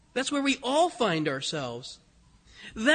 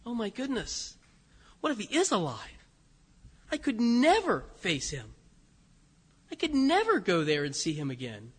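hushed, soft voice of shame; quiet, acted remorse; ashamed; 7 dB quieter than usual. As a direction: murmur it as if crushed by guilt. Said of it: "Can you imagine the shame?".

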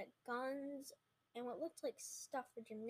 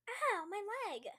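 high, loud screech of pain; high-pitched pained cry; 9 semitones higher, 8 dB louder than usual. Acted. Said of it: "Hunter screeched".

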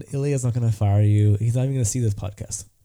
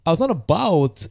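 halting delivery with odd pauses; swooping, stop-start cadence; Christopher Walken; slower than usual. Acted. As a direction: speak in broken phrases, each peaking then dropping. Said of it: "That's, that's really good".

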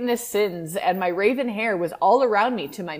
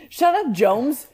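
mock shout; 5 semitones higher, 5 dB louder, slower than usual. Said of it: "Draco's dad shouted".

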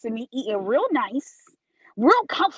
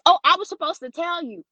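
higher-pitched mimicked bottle girl; imitated bottle girl; 6 semitones higher than usual. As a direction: put on the server's higher voice. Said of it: "She goes".

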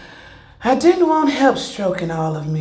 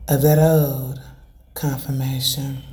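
fervent prayer. Acted. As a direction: pray it out with conviction. Prays aloud to the Lord.

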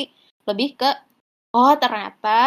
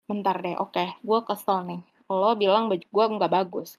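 calm self-check; 3 semitones lower, 5 dB quieter than usual. Retold or imitated. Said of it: "Terus kayak".

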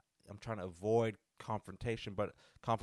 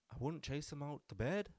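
put-on girl's voice; 4 semitones higher, 3 dB quieter than usual. One girl answers in retold scene.

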